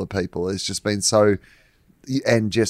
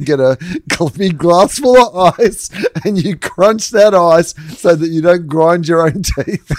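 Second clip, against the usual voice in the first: high, loud mock-therapist voice; 8 semitones higher, 7 dB louder than usual. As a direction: play the therapist over the top. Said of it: "His therapist just told him".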